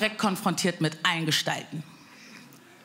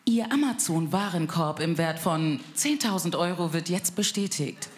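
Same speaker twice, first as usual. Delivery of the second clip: automated voice; 3 semitones lower than usual. Retold or imitated. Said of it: "Ich ruf meine Mutter an und sag".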